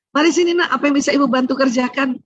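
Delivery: birth mother's offer. Acted. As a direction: call the child over helpfully. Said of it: "Kalau ibu kandung gimana ibu kandung?".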